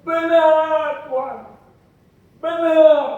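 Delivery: loud, firm "Benar"; the woman answers Jesus boldly; emphatic agreement. Acted. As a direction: declare it with conviction. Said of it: "Dia bilang".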